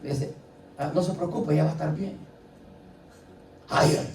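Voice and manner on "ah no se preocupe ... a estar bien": gentle doctor. Retold or imitated. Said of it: "no le llega hablando así, feo".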